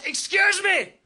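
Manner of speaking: high, shouted Northern Irish heckle, slowing to a drawn-out end; hammed-up Northern Irish heckler yelling; Northern Irish accent. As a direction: screech it like a Northern Irish human alarm. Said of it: "in that understated Northern Irish accent".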